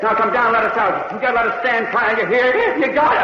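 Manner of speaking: desperate pleading. Acted. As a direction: plead hard to be let out. Begging captor to free them.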